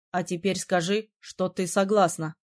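lightly voiced prince giving an order; commanding. A narrator's reading. Prince ordering her to consent, commanding. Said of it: "велел он".

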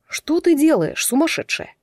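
openly amazed at her; surprised. A narrator's reading. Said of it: "не скрывая удивления".

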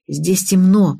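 ordinary delivery

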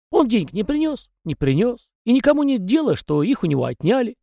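high, folksy little peasant voice; chatty house spirit. A narrator's reading. House spirit Tikhon rambling to the young master, high and folksy. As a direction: prattle on as a talkative domovoi.

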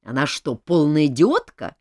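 gruff and loud; rude. Acted. King answers Anna about the marquise, rough and loud. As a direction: brush her off rudely. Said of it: "грубо ответил король".

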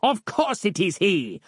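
high, grandly indignant villain; cried. A narrator's reading. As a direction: declare it with mock pomp. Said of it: "cried Harland".

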